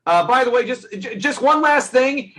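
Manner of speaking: a hint of a creepy neighbour adding one last thing; mock polite warning. Voicing the guy warning Sam.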